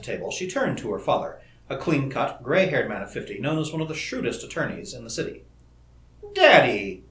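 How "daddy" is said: loud, peremptory call; sharp summons, falling pitch; demanding. A narrator's reading. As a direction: call a parent to account. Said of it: "she demanded".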